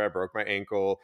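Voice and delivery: usual speaking voice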